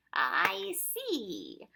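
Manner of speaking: high, drawn-out, falling Proc; trace of disappointment. A narrator's reading. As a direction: let it sink with mild disappointment. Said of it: "a trace of disappointment in his voice".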